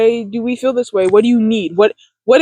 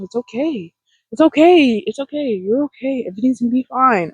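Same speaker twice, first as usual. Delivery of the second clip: soothing reassurance. Retold or imitated. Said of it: "And I tell myself".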